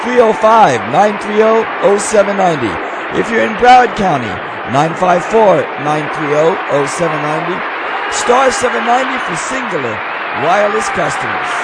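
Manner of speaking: loud radio host announcement; show opening. Acted. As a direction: call out the phone numbers to a crowd. Host calls out phone numbers.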